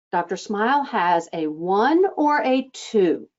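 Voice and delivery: falling, grounded tune on "Doctor Smile has a one or a two."; downward statement. Shown as a demonstration. Coach demonstrating a grounded statement to front desk staff, falling tune. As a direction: let "one or a two" sit down firmly. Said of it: "Do you hear how that sits down?".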